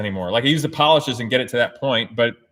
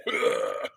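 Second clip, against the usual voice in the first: imitated noise; 9 dB quieter than usual. Noise for the doors going up.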